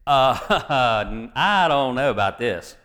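mock reluctance with an awkward little laugh; playfully imitating someone balking; hesitant objection. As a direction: hedge with a chuckle, lightly acted. Acts Ananias hesitating before the Lord.

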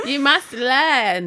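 slow, firm mock scolding; mock stern. Real, not acted. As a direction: lay down the law slowly.

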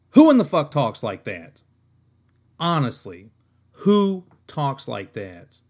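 loud, incredulous demand; venting at a terrible book line, loud disbelief; exasperated outburst. Real, not acted. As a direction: throw the question at the room, fed up.

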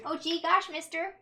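put-on wholesome 1950s kid. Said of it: "you appreciated the reference".

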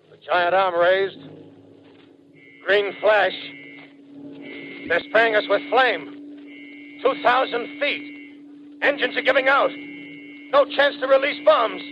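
a bomber pilot reporting as flames take his plane; rising panic. Acted. Pilot attacked, plane diving down.

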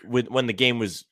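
loud, fast, high-pitched indignation; indignant outburst. Real, not acted. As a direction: burst out in disbelief. Indignant outburst about late fouling.

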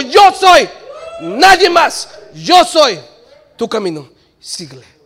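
proclaim, then soften to a tender plea; God declaring then whispering follow me. Acted. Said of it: "Él dijo".

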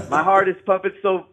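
laughing through the nerves; excited caller laughing as he talks; nervous laugh. Real, not acted. Caller overwhelmed on live show.

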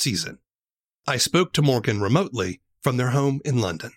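measured podcast feature read; scripted narration. Real, not acted. Host introduces the show and its creator to listeners, scripted narration. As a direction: lay out the premise deliberately for listeners.

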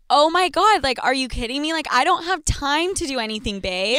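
mock-incredulous sarcasm; sarcastic. Podcaster acting her answer to a questioning fuckboy, sarcastic. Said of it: "You answer sarcastically".

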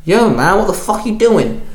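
sharp mock yell at the stranger; barked. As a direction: confront the intruder with a shout. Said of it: "J J barked".

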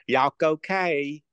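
mocking white folks. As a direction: draw it out, making fun of white folks. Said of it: "making fun of those, uh, those white folks".

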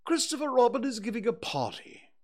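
high, pompous owl voice; a fussy, self-important owl announcing news; Owl's voice. Acted.

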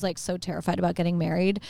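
talking through a burp; a burp mid-sentence. Real, not acted. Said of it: "Sorry, I'm burping".

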